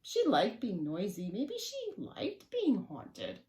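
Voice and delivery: lively read-aloud with swooping emphasis; story narration. A narrator's reading. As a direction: tell it to small children, playfully. Reads a picture book to children.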